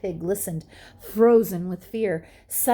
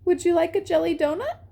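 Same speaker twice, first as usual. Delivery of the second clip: much higher, fast and eager; little scientist pig; 10 semitones higher, much faster than usual. A narrator's reading. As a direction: offer it in a quick high squeak. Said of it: "he asked".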